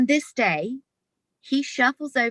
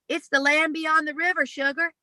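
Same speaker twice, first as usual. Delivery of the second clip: higher, gentle voice of a man seeing beyond; father's tender vision; 8 semitones higher than usual. Retold or imitated. Dying father telling daughter of the afterlife, gently awed. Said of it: "he turns to me and he goes".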